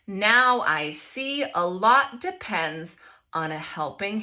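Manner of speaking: expressive picture-book read-aloud; reading to children. A narrator's reading. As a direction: read it to the class with lively voices.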